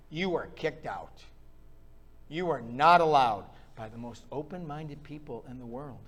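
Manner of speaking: mock the open-minded crowd; dry sarcastic jab; full mockery. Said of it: "I say that in full mockery".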